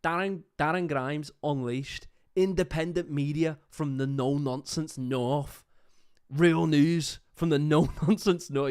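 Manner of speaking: mock northern English promo voice; northern English accent. Commentator reading the politician's slogan, mock northern accent. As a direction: put on a no-nonsense northern accent. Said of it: "how do you do a fucking northern accent".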